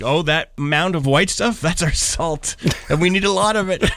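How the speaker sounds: a hint of a local showing off the salt pile; imitating proud locals. Locals showing a visitor their salt, lightly proud voice. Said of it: "everybody can't wait to show you".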